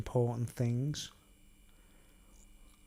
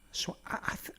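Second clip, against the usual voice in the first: hushed late-night whisper; breathy hush at night; 7 dB quieter, faster than usual. Real, not acted. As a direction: whisper so as not to wake anyone. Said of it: "late at night".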